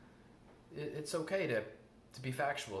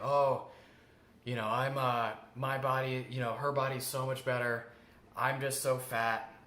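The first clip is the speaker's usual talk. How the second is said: body shaming inner voice; 4 dB louder than usual. Retold or imitated. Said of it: "that body shaming voice".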